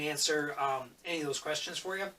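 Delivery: talking around a coffee sip; while sipping a drink. Real, not acted. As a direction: speak between sips of coffee. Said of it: "Sorry, I'm drinking coffee".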